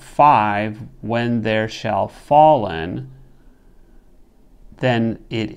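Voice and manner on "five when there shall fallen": slow counting. Shown as a demonstration. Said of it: "This solution recognizes the caesura".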